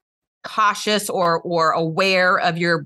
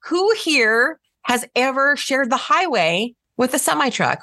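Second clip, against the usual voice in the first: lilting, raised start on an open invitation; approachable question voice; 5 semitones higher than usual. Shown as a demonstration. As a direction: ask the room as if handing over the turn. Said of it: "I want you to change your voice".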